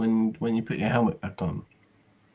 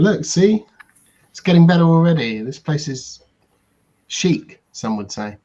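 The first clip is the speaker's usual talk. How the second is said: bright salesman pitch, higher and louder; upbeat salesman; 5 semitones higher, 5 dB louder than usual. Acted. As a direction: sell the cheap room with cheer. Bill pitches the cheap room.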